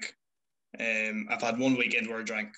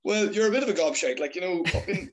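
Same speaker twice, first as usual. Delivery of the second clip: higher-pitched mock exasperation; scolding dad; 6 semitones higher than usual. Son imitating his dad's criticism of his videos, exasperated. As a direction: imitate a father putting his son straight.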